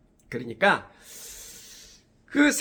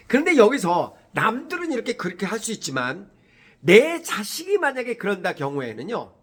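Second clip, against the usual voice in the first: ordinary talk, nothing marked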